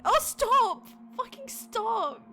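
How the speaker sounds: loud high shriek, then drawn-out wail; high-pitched, distressed protest; horrified outburst. Real, not acted. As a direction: shriek for it to stop.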